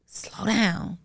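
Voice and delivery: calming adviser. Acted. Imagined adviser calming someone down.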